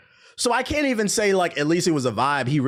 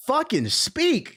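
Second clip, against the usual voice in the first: slow, higher, spaced-out words; slow emphatic demand; 8 semitones higher, much slower than usual. Real, not acted. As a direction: spell out every word slowly and hard. Demanding enunciation.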